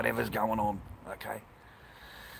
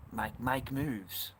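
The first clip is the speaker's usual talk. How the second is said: slow emphatic advice; 6 dB quieter, much slower than usual. Real, not acted. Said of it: "See the flag".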